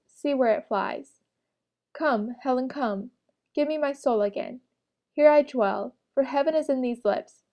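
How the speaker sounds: dramatic recitation. Acted. Student performing Marlowe's lines to the class, impassioned. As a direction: plead to Helen through the lines. Reads Doctor Faustus aloud.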